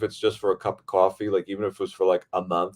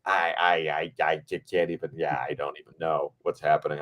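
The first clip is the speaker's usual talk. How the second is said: retold speechless stammer, softer; flustered stammer; 5 semitones lower, 4 dB quieter than usual. Replying to Maria while glowing like a kid, mock-flustered stammer. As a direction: trip over the words, lightly imitating being overwhelmed. Retelling being overwhelmed like a kid.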